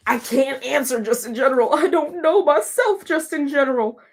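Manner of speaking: protest, rising in pitch as you go; exasperated protest. Real, not acted. Streamer protesting a vague question from chat, exasperated.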